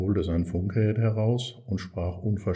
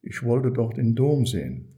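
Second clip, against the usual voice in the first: put-on higher, louder boyish outburst; blurting out; 4 semitones higher, 5 dB louder than usual. A narrator's reading. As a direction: let it burst out, calling it. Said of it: "rief er".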